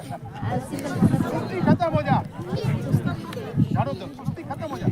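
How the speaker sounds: drawn-out loud command to laziness; loud stretched rebuke. Shown as a demonstration. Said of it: "सुस्ती को डांटो".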